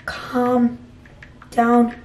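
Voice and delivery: halting, with a gap after each word. Acted. Vlogger typing a denial to the owner, word by word. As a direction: spell out the reply one word at a time.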